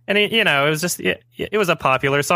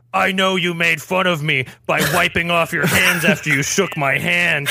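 a hint of a stern principal; 4 semitones higher than usual. Principal quoted accusing the narrator.

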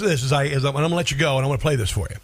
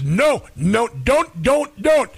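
higher and louder mocking repeated warning; mock Biden; 6 semitones higher, 3 dB louder, much slower than usual. Radio host doing a bad Biden impression, higher mock voice. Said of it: "Joe Biden says".

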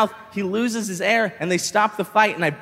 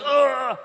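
raised groan of taking a hit; mock pained groan; 6 semitones higher than usual. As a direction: groan as if punched. Acting out being punched.

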